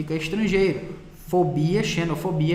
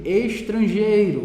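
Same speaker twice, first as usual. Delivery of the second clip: estrangeiro slow and louder; emphatic estrangeiro; 4 semitones higher, 4 dB louder, slower than usual. Shown as a demonstration. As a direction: lean on estrangeiro to fix it.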